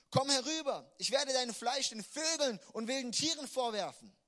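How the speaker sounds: high and loud menacing shout; Goliath threatening to feed David to the birds; threatening roar. Acted. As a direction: bellow the threat. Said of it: "rief er David zu".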